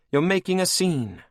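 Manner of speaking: high, cold and mocking; villainess queen. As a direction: purr it over your captive like a cruel queen. Anne rebukes Cashel.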